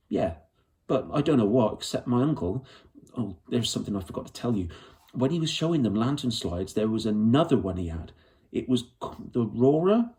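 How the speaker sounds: Lyra pouring out her story in a rush, stubborn; lightly voiced young girl. Lyra remembering the slides.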